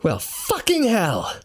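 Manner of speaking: high, drawn-out swear; alarmed cursing. Acted. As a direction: curse slowly in dismay. Narrator now holds two snakes.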